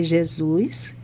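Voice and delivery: a hushed whisper to Jesus; whispered prayer. Retold or imitated. Retelling how she secretly whispered to Jesus, a soft whisper. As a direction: breathe the name like a secret prayer.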